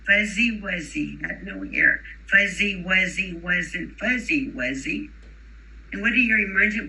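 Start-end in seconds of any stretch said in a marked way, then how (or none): 0.1-5.1 slow, clear Fuzzy Wuzzy with a buzzing Z; teacher leading a rhyme. Shown as a demonstration. Teacher leading children in a repeat-after-me rhyme. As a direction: lead the class in the rhyme. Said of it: "repeat after me".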